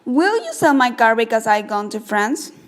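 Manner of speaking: steady beat on "sell", "car", "gone", "France"; stressed-word rhythm. Shown as a demonstration. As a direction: keep the beat by slowing "my" and hurrying "because I". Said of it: "we say my more slowly and because I more quickly".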